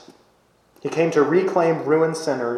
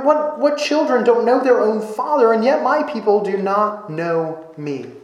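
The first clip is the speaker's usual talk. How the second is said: wistful lament; 6 semitones higher than usual. Acted. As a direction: still voicing God, higher and pleading. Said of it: "God is almost wistfully crying out".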